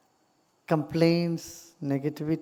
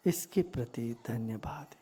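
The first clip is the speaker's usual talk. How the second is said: calm, measured meditation voice with long silences; guided meditation; faster than usual. Real, not acted. Teacher guiding meditators into gratitude for body and breath, calm guided meditation. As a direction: guide them gently inward, leaving long pauses.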